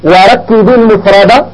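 slow, measured repeat of the verse for dictation; repeated verse recitation. Shown as a demonstration. Teacher repeats the verse for students writing it down, slow recitation. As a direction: say it again slowly so they can write. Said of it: "أعيد".

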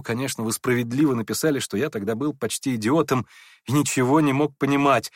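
ordinary delivery, nothing marked

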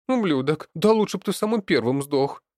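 loud, high-pitched furious yell; furious bark. A narrator's reading. Daughter lashes out at Leonid, furious yelling. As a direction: hurl the curse at full pitch. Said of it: "рявкнула Алёна".

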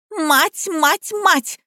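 high hysterical cursing; unhinged. A narrator's reading. Liza goes off the rails, hysterical. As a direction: repeat it high, losing control. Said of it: "окончательно съехала с катушек Лизавета".

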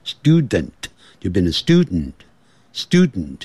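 "student" with the "den" let out through the nose; nasal-release student. Shown as a demonstration. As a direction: end "student" on a nasal n instead of a full "den". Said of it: "它用鼻音出来".

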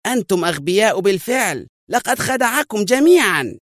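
high, exasperated yell; furious, pitched very high; angry scream. A narrator's reading. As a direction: shout down the whole room. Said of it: "صرخ الرجل في غضب".

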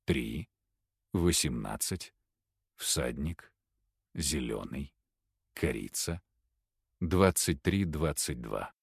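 low, soft, slow list of cue words; hypnotic trigger words. Acted. Professor speaking the trigger words, low and slow. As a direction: lay each cue word down slowly and softly. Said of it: "произнёс контрольные слова".

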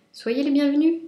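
high, loud happy greeting; cheerful welcome. A narrator's reading. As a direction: welcome them gladly. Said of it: "dit Lapin".

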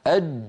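أج shut tight at the end; stopped jeem. Shown as a demonstration. Teacher showing a stopped jeem. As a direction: close أج with no release. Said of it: "جيم ساكنة".

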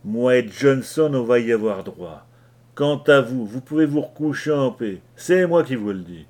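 angry rant. Acted. Leach berates the frightened crew.

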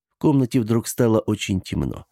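ordinary delivery, nothing marked

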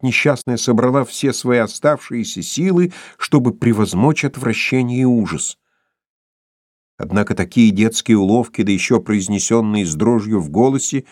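ordinary delivery, nothing marked

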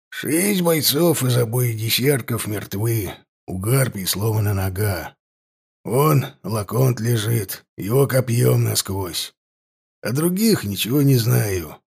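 wincing gnome. A narrator's reading. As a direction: report it through the pain, wincing. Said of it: "морщась от боли".

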